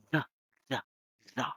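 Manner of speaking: "the" with a buzzing voiced th, repeated; voiced th drill. Shown as a demonstration. Teacher drills the voiced TH sound for a trainee. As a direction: drill "the" with the throat vibrating. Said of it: "there is a vibration on your throat".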